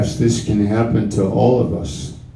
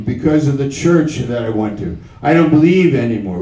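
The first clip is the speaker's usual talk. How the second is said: doubter's voice; 3 semitones higher, faster than usual. Acted. Voicing a doubter in sermon.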